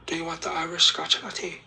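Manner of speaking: put-on quick comic Irish-accented question. Barista presses the customer about the latte, Irish accent. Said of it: "That's me using my Irish accent".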